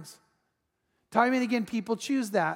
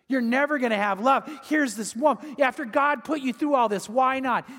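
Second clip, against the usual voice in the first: mock scream; 4 semitones higher than usual. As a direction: cry out at Joseph, exasperated. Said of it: "most of us would scream out".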